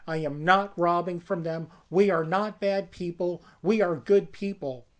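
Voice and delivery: rising indignant protest; firm refusal. Retold or imitated. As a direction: dig in and refuse. Sister refusing to rob friends.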